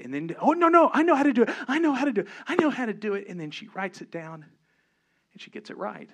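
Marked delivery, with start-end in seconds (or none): 0.4-3.3 put-on much higher and louder, eager little girl; hammed-up eager child, insistent and high; mock excited child. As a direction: blurt it out like a kid who just got it. Excited daughter voiced.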